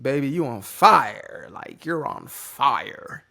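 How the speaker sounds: slow, drawn-out mock girlfriend voice; a hammed-up loving girlfriend impression; imitating his girlfriend. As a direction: stretch it out like a doting partner. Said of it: "she doesn't sound like that".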